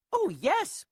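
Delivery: high piping reply; piped. Acted. Mayor answering Horton, high piping voice. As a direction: chirp it high and small. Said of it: "piped the voice".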